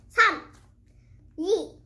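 high excited countdown, long drawn final ding; auctioneer countdown. Pretend. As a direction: call the closing with a big drawn-out ding.

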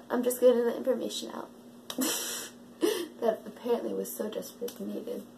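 dry sarcastic tone. Acted. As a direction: say it with heavy sarcasm. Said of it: "that was sarcasm".

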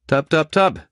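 a hint of a gruff cab driver; lightly voiced cabbie. A narrator's reading. Taxi driver asking his passenger the house number. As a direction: play the chatty taxi driver.

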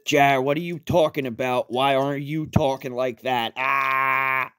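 high panicked yell; frantic yelling. Retold or imitated. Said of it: "started yelling at five-year-old me".

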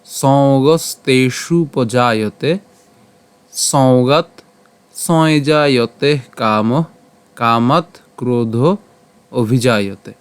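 measured, drawn-out shloka recital; slow verse recitation. Shown as a demonstration. Teacher reciting the Gita verse to the class, slow and measured. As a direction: chant the Sanskrit verse slowly, word by word. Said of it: "তো আজকের শ্লোকটি হলো".

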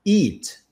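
"eat" with a long, high ee; "eat" with a long, tense vowel. Shown as a demonstration. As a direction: stretch the ee in "eat". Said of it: "quando você ouvir alguém falando assim".

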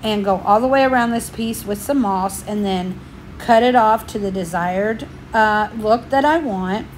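slightly winded, breathy talk; talking while a bit out of breath. Real, not acted. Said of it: "Sorry about the out of breath".

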